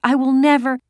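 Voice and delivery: put-on high, loud, drawn-out child's protest; wailing refusal. A narrator's reading. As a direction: wail it slowly like a stubborn little girl. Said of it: "Kirsty wailed".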